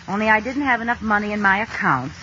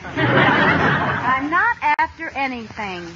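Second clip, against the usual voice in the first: guilty laugh; much slower than usual. Acted. Caught, denying with a laugh.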